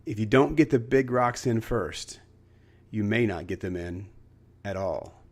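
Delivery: calm, measured lesson; calmed-down professor. Retold or imitated. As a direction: settle the room and let it sink in. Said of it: "calmed everything down and says".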